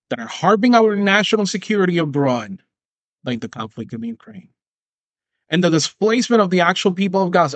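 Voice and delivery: solemn politician's plea, lightly done; hint of a pompous speech; mock campaign appeal. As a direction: urge voters like a campaign ad.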